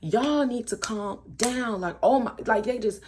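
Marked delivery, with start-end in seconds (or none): 0.0-1.8 mildly raised, higher-pitched scolding; retold irritated telling-off; pissed off. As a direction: imitate fed-up friends laying down the law. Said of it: "they're just pissed off at this point".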